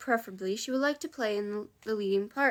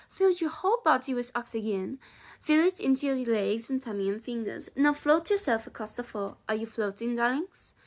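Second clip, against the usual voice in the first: put-on French accent. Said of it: "She's just gonna be French now".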